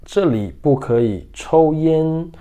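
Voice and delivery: very slow, every syllable clear; slow model reading. Shown as a demonstration. Teacher modelling the sentence for students, very slow. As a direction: read it slowly for students to repeat. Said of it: "vamos para a leitura".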